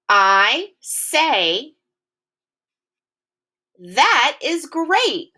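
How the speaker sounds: slow, high, excited "That is great"; excited exclamation. Shown as a demonstration. Teacher modelling an exclamation for kids, slow and excited. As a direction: stretch it out with big excitement. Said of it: "Listen to the tone of my voice".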